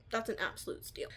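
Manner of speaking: whispering "That's an absolute steal" under the breath; breathy whisper on "absolute steal". Real, not acted. Repeats phrase, then whispers it.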